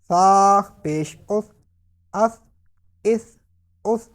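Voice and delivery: drawn-out drill with unwhistled th; no whistle. Shown as a demonstration. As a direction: end "اف" on th as in "thin", no hiss. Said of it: "سیٹی کی آواز نہیں نکالیں گے".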